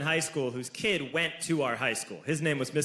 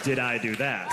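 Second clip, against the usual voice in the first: Steve Urkel; 5 semitones lower than usual. Retold or imitated. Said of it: "Steve Urkel".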